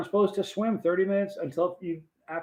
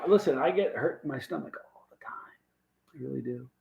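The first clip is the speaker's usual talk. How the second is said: whispered aside; 5 dB quieter than usual. Real, not acted. Confiding aside to chat.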